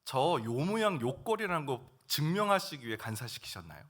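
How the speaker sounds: rising protest to God. Retold or imitated. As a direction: argue with God, frustrated and hurt. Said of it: "막 따졌어요".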